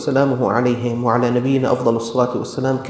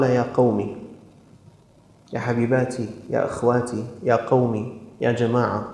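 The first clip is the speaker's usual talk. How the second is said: soft, lowered endearing calls; tender address; 3 semitones lower, 4 dB quieter than usual. Shown as a demonstration. Prophet addressing his people, softly affectionate. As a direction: coax his people gently, like friends. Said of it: "وهي إشارة أيها الإخوة".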